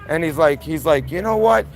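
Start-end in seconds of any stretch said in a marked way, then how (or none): 1.1-1.7 retold angry outburst, higher pitched; flipping out. Furious driver confronting him after hitting his car, imitated flipping out. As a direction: imitate a man losing his temper. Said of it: "He starts flipping the fuck out".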